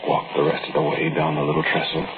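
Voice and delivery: story narration. A narrator's reading.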